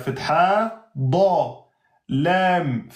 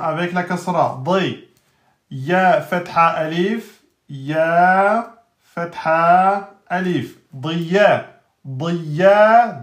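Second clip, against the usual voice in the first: loud spelling drill; 4 dB louder, slower than usual. Shown as a demonstration. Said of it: "spelling drill".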